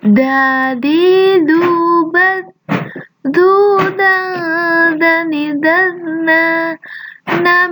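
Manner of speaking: slow chant, tongue tip bitten forward; teacher modelling za with the tongue forward. Shown as a demonstration. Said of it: "lidahnya digigit ke depan".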